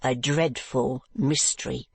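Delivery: slow, grim echo; stern wife answering her husband. Acted. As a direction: echo it slowly and darkly. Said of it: "shaking her head".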